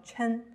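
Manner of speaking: chen as one syllable, ch sound closed by n; blended like pinyin. Shown as a demonstration. Teacher joining che and n, chen read as one syllable. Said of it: "像拼拼音一样把它拼起来".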